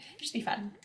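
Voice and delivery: whispered aside; breathy little aside before a laugh. Real, not acted. Streamer guesses a viewer is from Sweden, whispered aside.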